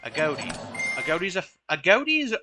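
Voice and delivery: false starts on the name; stumbling over words. Real, not acted. Game commentator restarting a card's name, stuttering. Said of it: "I'm stuttering a lot today".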